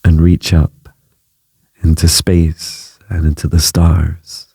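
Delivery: calm, measured meditation voice with long pauses; unhurried phrases, leaving space after each; guided meditation. Acted. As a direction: guide the listener gently through each breath and image.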